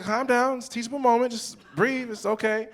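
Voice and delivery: hammed-up teachable-moment calm; mock reassurance. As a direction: talk a panicking child down. Father soothing crying daughter.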